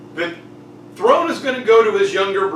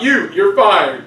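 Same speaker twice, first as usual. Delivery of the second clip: mock firing; 7 dB louder, slower than usual. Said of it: "when people speak out".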